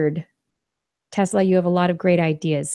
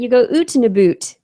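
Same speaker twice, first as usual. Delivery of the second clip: mock Canadian oot and a boot, a bit louder; Canadian accent; 5 semitones higher, 6 dB louder than usual. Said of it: "And then in Canada".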